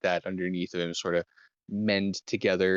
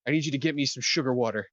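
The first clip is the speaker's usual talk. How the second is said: quick, pitched-up urgent healer; Theo urgent; 4 semitones higher, faster than usual. Acted. Theo asks Silica for sugar water, hurried and urgent. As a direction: rush the orders like a frantic medic. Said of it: "He's like".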